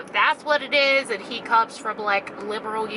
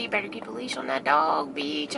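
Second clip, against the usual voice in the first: mock tough threat; 8 semitones lower, 4 dB quieter than usual.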